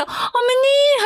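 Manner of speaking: very high, drawn-out mock sweetness; mock a flatterer's sing-song call; fawning mimicry. Mother-in-law mimicking daughter-in-law's flattery, mock fawning. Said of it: "그렇게 알랑방구 끼면서".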